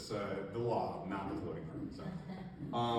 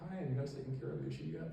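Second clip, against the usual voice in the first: sweet, slightly higher, brisk check-in; really sweet; 5 semitones higher, faster than usual. Retold or imitated. Officer checking in with pond owners each month, sweetly. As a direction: ask it sweetly, quick and light. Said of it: "being really sweet".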